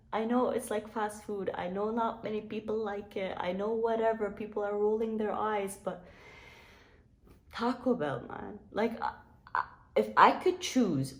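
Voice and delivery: high-pitched mock distress; mock-tearful protest. Vlogger defending fast food to eye-rolling viewers, mock-tearful. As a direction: defend it as if close to tears, playfully. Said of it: "I'm about to cry up in here".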